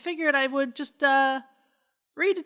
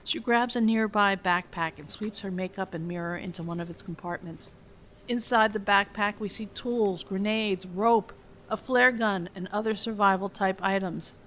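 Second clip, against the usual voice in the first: measured, even script reading; screenplay narration; 3 semitones lower than usual. A narrator's reading. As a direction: read the scene directions out evenly, lower than chatting. Reads film script aloud.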